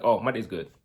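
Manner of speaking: a mild imitation of his wife answering short because she's upset; lightly voiced wife, curt and a bit cold; upset curt reply. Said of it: "that's how she would respond if she was upset or she was angry".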